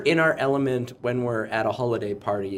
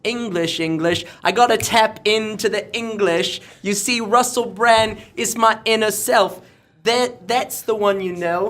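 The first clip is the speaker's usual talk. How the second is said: high-pitched, drawn-out English accent; theatrical Russell Brand style English accent; 6 semitones higher than usual. Shown as a demonstration. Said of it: "I could take on an English accent".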